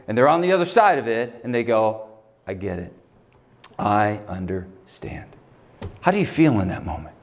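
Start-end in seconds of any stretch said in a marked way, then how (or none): 2.5-5.3 soft, slow reassurance; quiet empathy from someone who's been there; hushed, knowing comfort; gentle understanding. Retold or imitated. Friend who has been through it.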